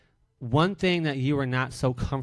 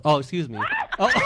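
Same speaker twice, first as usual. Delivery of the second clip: normal talking voice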